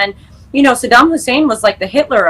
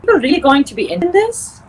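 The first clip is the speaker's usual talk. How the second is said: imitating mom; 7 semitones higher than usual. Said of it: "She goes".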